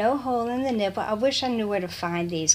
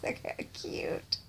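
whispered; 9 dB quieter than usual. Real, not acted. Whispering over baby clothes.

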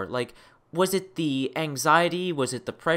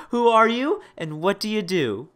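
ordinary talk

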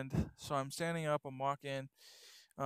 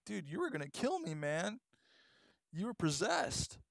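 alarmed friend; 6 semitones higher than usual. Retold or imitated. Friend John retelling the attack.

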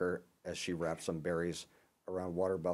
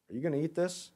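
Norman's voice; 8 semitones higher than usual. Acted. Neighbor Norman asks Jim.

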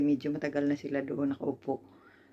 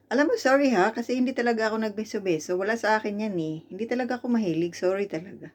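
mock apology; 5 semitones higher, faster than usual. Mocks relative's fake apology.

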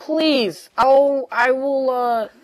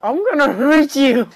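raised, louder laughing threat; playful threat; 3 semitones higher, 5 dB louder than usual. Real, not acted. S0 teased as Ambulance, playful loud threat. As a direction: threaten them while half laughing.

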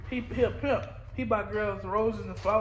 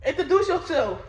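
laughing; 5 semitones higher, 4 dB louder than usual. Real, not acted.

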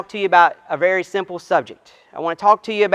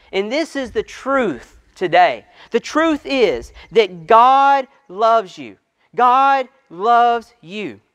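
impassioned preaching. Acted. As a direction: press the truth home slowly.

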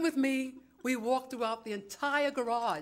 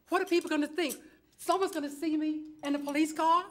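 mildly alarmed, higher-pitched objection; worried protest; 5 semitones higher than usual. Retold or imitated. Woman to officer about the police car, worried protest. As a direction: protest in a raised, fretful pitch.

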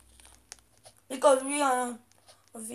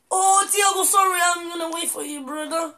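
shouted apology; 3 semitones higher than usual. Real, not acted. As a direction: yell the sorry over quickly.

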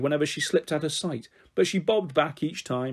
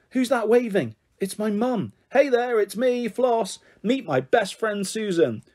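excited; 6 semitones higher than usual. Acted. Child playing flying game on swing.

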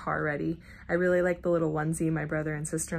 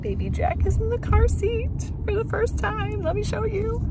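bright, much higher excited voice; 7 dB louder than usual. Real, not acted. Showing newborn in car seat.

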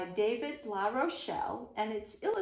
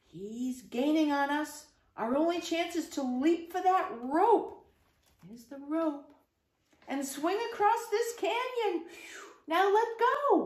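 being chased; 5 semitones higher than usual. Acted. Fleeing tiger across canyon.

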